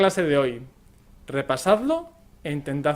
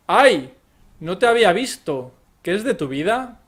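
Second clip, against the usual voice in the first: bright startled "¡Ay!", louder, then chatty; surprised greeting; 2 semitones higher, 6 dB louder than usual. Shown as a demonstration. Running into an acquaintance on the street, a surprised hello. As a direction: greet an old acquaintance you just spotted.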